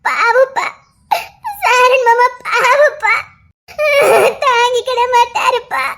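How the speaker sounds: tearful pleading. Acted. Daughter crying to father.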